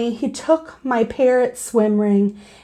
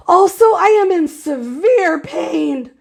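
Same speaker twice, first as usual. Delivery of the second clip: shouting; 5 semitones higher, 3 dB louder than usual. Acted. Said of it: "I shouted".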